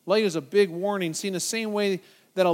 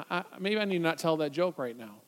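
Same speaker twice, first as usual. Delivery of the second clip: softer, stammering backtrack; hesitant; 3 semitones lower, 4 dB quieter than usual. Retold or imitated. Joke teller noticing a Christian in the room, hesitant. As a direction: back off awkwardly, quietly.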